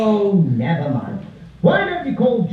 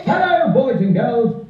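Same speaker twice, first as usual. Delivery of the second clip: like a gentleman. Shown as a demonstration. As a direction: greet them like a gentleman. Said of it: "like a gentleman".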